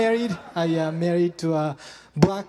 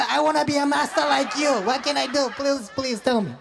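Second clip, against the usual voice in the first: higher, earnest mock plea to the master; pleading student; 5 semitones higher than usual. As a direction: beg the sensei like a devoted pupil. Begging a Mister Miyagi picture.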